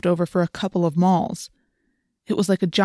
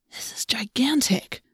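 breathless awed whisper; 5 semitones higher, 4 dB quieter, slower than usual. Acted. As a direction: whisper it in awe.

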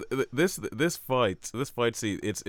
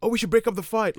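high mock voice; 12 semitones higher, 6 dB louder than usual. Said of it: "people going to say".

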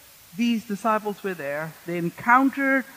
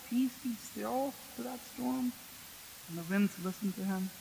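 hushed awe; 14 dB quieter than usual. Retold or imitated. Disciple recalling Jesus calming storm.

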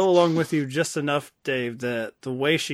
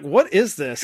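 louder, put-on disgusted question; mock disgust; 5 dB louder, slower than usual. Partygoers seeing Jennifer Garner start the dance, mock disgusted. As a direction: act out an appalled onlooker, with emphasis. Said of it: "They're, like, disgusted".

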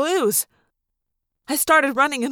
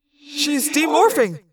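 slow echoing thought-speak; measured voice with reverb; talking shark; slower than usual. A narrator's reading. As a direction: telepathic shark reporting what it sees. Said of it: "the talking shark said".

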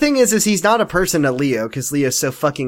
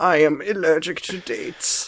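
British butler; 4 dB quieter, slower than usual. Retold or imitated. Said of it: "I am a British butler".

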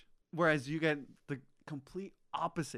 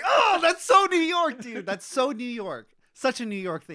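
mock New Yorker; 10 semitones higher, 12 dB louder than usual. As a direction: ham up a big New York scoff. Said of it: "I was like".

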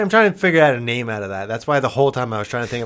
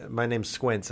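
put-on southern accent; 4 semitones lower, 13 dB quieter, slower than usual. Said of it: "Slowly getting to Southern".

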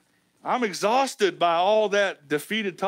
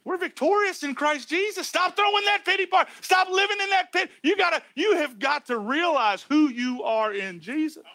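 high, urgent pulpit exhortation; forceful preaching; 5 semitones higher than usual. Real, not acted. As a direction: drive each command home to the congregation.

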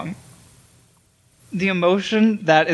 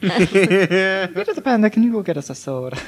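quoting a character; 3 semitones higher than usual. Retold or imitated. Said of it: "he's like".

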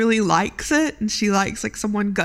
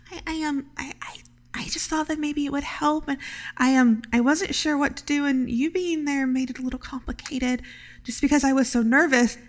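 blushing and tripping over words; flustered; 5 semitones higher than usual. Acted. Mouse answers Elaine's praise shyly, flustered. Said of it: "she gets really, really blushed".

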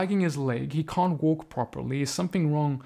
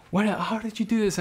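acted-out amazement, pitched up; amazed; 5 semitones higher than usual. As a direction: mimic a man stunned by his healing. Second healed man reacts amazed.

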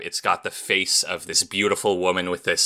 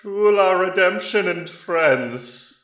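high, loud booming voice from the sky; magically amplified voice; 5 dB louder, slower than usual. Acted. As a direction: boom it out like a god overhead. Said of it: "a booming voice comes down from the sky".

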